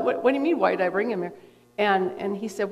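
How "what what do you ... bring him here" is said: baffled disbelief. Retold or imitated. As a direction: ask it back as if it makes no sense. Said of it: "I'm looking at him like".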